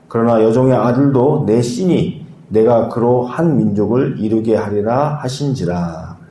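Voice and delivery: measured, even Bible reading; scripture reading. Acted. Pastor reads Genesis to the congregation, steady scripture reading. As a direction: read the passage aloud steadily and formally.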